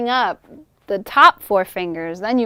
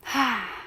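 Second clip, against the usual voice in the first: puppet breath sigh; 6 dB quieter than usual. Shown as a demonstration. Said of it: "my breath is matching with Coretta".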